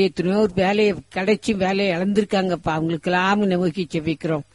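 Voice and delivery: pleading, steady stream of prayer; rhythmic, imploring prayer to God; fervent prayer. Real, not acted. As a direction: lead a congregation in earnest petition, phrase after phrase. Leads a congregational prayer.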